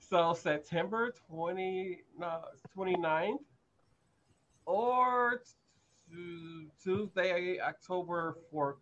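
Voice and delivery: slow, fumbling tipsy announcement; tipsy, losing the date. Real, not acted. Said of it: "I'm a little bit tipsy".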